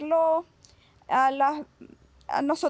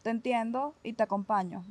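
soft, gentle comforting voice; calm a crying child, softly; soothing to a child; 4 dB quieter than usual. Shown as a demonstration. Psychologist showing parents how to soothe a crying child, soft and gentle. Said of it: "Lo único que tienes que hacer es acompañarlo".

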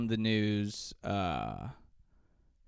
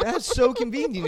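high, laughing through words; 11 semitones higher, 6 dB louder than usual. Real, not acted. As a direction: laugh as you say it. Laughing at own joke.

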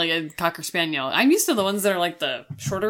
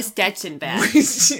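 put-on Wisconsin accent; much slower than usual. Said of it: "I love that accent".

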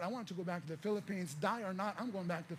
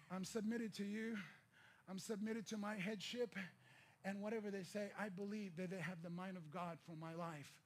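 humble prayer; 6 dB quieter than usual. Retold or imitated. Quiet prayer of surrender.

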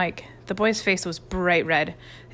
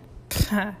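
scornful laugh. A narrator's reading. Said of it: "said Rudy scornfully".

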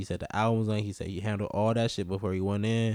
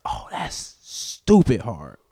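mocking voice; 7 dB louder, much slower than usual. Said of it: "But the white people are like".

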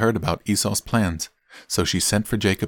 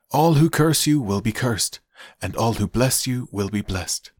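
higher, solemnly proclaimed fatherly blessing; Isaac blessing; 5 semitones higher than usual. Acted. Isaac blesses the son he takes for Esau, proclaiming. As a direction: pronounce it grandly, phrase by phrase.

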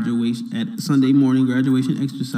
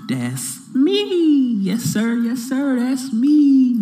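hyped boast; 11 semitones higher, 4 dB louder, much slower than usual. Acted. High hype boast.

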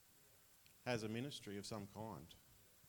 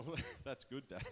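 laughing reply. Retold or imitated. Laughing at his dad's joke.

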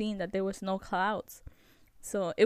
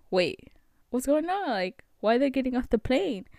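higher-pitched puzzled questioning; baffled; 4 semitones higher than usual. Retold or imitated. Host retells seeing passengers leave the plane, baffled. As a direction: act out mild disbelief. Acted confusion at passengers leaving.

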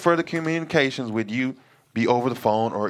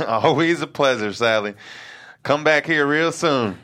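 laughing; 3 dB louder than usual. Acted. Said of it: "Kenny comes into the lobby laughing".

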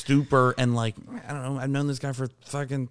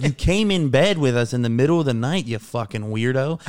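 loud accusation; 5 dB louder than usual. Retold or imitated. Confronting his buddy next morning, retold.

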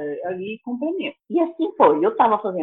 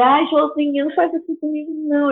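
mock pleading; 5 semitones higher than usual. Pleading with friend in quote.

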